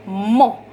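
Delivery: "mo" set apart and stressed; stressed syllable. Shown as a demonstration. Teacher isolating the stressed syllable for students, "mo" said emphatically. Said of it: "el golpe de voz".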